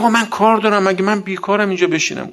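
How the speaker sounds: mock a man abruptly raising his voice; retold shout. Opponent suddenly breaking off a debate, imitated shouting. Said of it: "یه دفعه داد زد".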